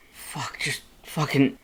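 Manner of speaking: slow whispered frustrated curse; whispered swearing. A narrator's reading. Red cursing to himself, slow frustrated whisper. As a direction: breathe the curse out.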